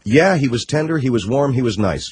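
lightly put-on Middle Eastern accent; mock Middle Eastern accent. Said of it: "I'm doing the accent".

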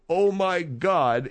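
slow, stunned oh my God; drawn out in reverent awe; awed whisper. Retold or imitated. Bartender kneels in awe.

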